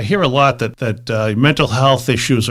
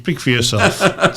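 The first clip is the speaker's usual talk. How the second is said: laughing retort; 4 dB quieter, slower than usual. Real, not acted.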